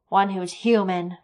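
slow, loud and pointed; defiant soldier. Acted. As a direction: spell out the insult, slowly. Defiant soldier confronts creature.

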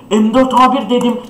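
scratchy, worn-out excited voice; hoarse voice. Real, not acted. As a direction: voice gone hoarse from yelling. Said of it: "Sesim kısıldı be".

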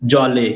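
জলে as two beats, জ then লে; separate syllables. Shown as a demonstration. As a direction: sound out জলে with জ open and লে apart. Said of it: "এই দুটো আলাদা হয়ে যাবে".

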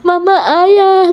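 mild mock yell, high and drawn out; retold child's yell. Child watering out front calls to mama, mild high yell. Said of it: "di depan itu teriak".

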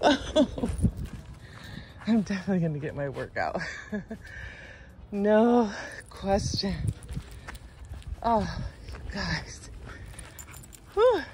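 winded, puffing between words; out of breath. Real, not acted. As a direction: talk while climbing, short of air. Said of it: "Do I sound out of breath? Because I am already".

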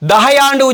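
தகையாண்டு said "dahaiya", ending in a long -aiya; wrong pronunciation. Shown as a demonstration. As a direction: stretch the end of தகையாண்டு into -aiyaa. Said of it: "உச்சரிக்கவும் கூடாது".

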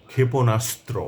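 ক্ষেপণাস্ত্র with the স্ত্র cluster pressed hard, all three letters sounded; pressed conjunct. Shown as a demonstration. Teacher demonstrating correct ক্ষেপণাস্ত্র for learners, pressing the cluster. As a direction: lean on the joined letters of ক্ষেপণাস্ত্র. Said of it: "যুক্ত বর্ণে অবশ্যই চাপ দিয়ে উচ্চারণ করতে হবে".

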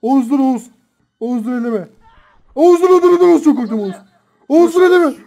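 breathless pleading on the run; while running. Real, not acted. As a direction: beg while fleeing in panic. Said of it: "Koş Berat". (koşarken nefes nefese yalvarış)

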